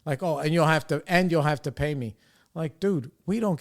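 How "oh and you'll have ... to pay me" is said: a touch condescending, retelling her words; mildly patronizing imitation. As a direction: lightly mimic her talking down. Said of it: "very, a little bit condescending".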